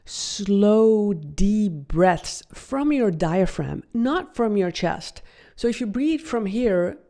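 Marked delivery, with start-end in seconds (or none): 0.0-3.8 drawn-out, unhurried words. Shown as a demonstration. Coach guiding slow breaths from the diaphragm, slow and drawn out. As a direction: stretch each word like a long breath. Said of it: "breathe deeply".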